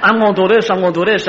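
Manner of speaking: eager and loud, gonna do it; pumped-up drunk determination; excited. Retold or imitated. Drunk boast at ballgame.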